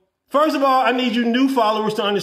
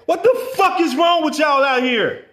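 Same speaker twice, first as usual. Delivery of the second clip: exasperated shout; 3 semitones higher than usual. Real, not acted. Exasperated outburst at followers.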